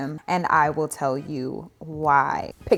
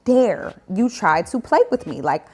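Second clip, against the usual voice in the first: enraged; 4 semitones higher, 7 dB louder, slower than usual. Retold or imitated.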